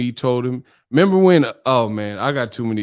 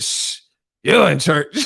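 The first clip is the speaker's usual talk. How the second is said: mocking echo; 3 semitones higher than usual. The speaker mocking the church lady's shush, mimicking. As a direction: parrot her words back in mild mockery. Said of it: "he would mock the people's voices".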